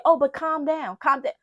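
mock placating. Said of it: "breath you say".

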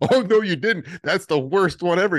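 high, loud mock dismay; alarmed roommate. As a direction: imitate a friend horrified by the choice. Roommate's acted alarmed reaction.

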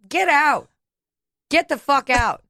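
play-acted yell to throw the partner out; mock outburst. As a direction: fake outrage at a tender moment. Imagined outburst at partner Rafe.

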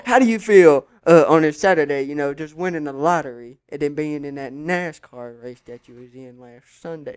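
interview the race winner in radio style; mock sports interviewer. Interviewing pretend race driver.

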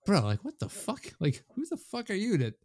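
fired up, half laughing at the pundit; incredulous rant. Real, not acted. Ranting at a pundit who dissed Messi, high incredulous outrage.

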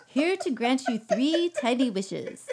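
laughing genie voice; cheery little genie greeting. Acted. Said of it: "a genie voice".

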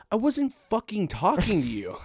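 high, loud retold outburst; hammed-up exasperated yell; mock exasperation. Comedian shutting down a drunk heckler, mock-exasperated yell.

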